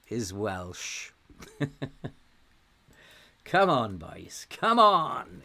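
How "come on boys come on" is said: high, loud cheer-on; urging shout. Real, not acted. Gamer urging on his boys, excited shout. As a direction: shout your team on, rising hard on the last call.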